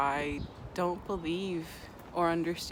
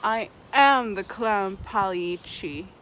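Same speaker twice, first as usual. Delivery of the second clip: mock tearful reveal; 2 semitones higher, 7 dB louder, slower than usual. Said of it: "the guy starts crying".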